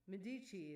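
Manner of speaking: Medici said with a "shee" ending; own pronunciation. Real, not acted. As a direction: say Medici as muh-DEE-shee. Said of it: "is how I say it".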